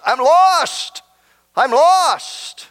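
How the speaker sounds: high-pitched mock cry of the damned; imitated anguished scream. Preacher voices those on the way to hell, imitated despairing cry. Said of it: "will those words be screamed out by those".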